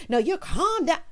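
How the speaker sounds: high, put-on mocking voice. Mocking someone who tells her to calm down, high and put-on. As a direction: taunt them in a silly voice. Mock voice of the other person.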